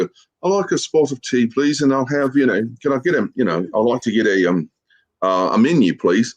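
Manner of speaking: mock British accent, lightly done; hammed-up British tourist ordering food. Ordering in the restaurant in a mock British accent. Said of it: "talk with a British accent".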